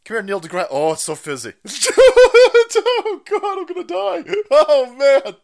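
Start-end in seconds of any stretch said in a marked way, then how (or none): 1.6-5.4 high, loud, helpless laughter through the words; laughing fit. Real, not acted. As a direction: crack up, barely getting it out. Laughing fit over fizzy drink.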